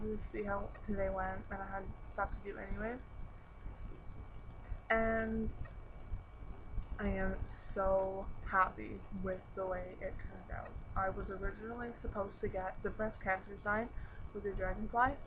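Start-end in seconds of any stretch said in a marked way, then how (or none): 4.9-15.2 speaking with a retainer in; wearing a retainer. Real, not acted. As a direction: talk around a retainer. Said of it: "I know I sound like a retard, but my retainer in".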